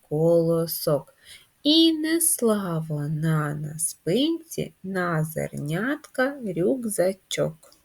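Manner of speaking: slow syllable-by-syllable chant; drawn-out, rhythmic nursery rhyme; children's rhyme recitation. Shown as a demonstration. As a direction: recite it in measured beats for finger play. Recites finger-play rhyme.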